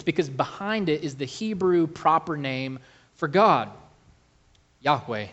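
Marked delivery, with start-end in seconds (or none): none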